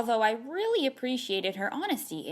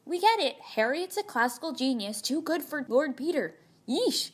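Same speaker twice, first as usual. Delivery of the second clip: higher-pitched, fed-up gripe; mock exasperation; 4 semitones higher than usual. Letter writer griping about a classical genius, exasperated. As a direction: complain with light, playful exasperation. Grumbles about Harriet's showy Latin.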